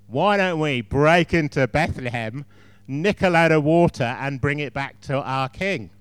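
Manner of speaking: loud, slow eager plotting; rally the men for a raid; excited. Acted.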